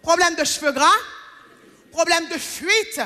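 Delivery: lightly imitated commercial voice-over, questioning lift at the ends; a hint of TV-ad announcer. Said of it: "quand la voix off, elle dit".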